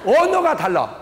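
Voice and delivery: normal talking voice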